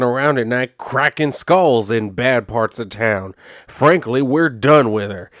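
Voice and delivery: words squeezed out of one side of the mouth; lightly voiced sheriff with chew in his lip, dismissive; tobacco-chewing cop voice. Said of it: "talking like that".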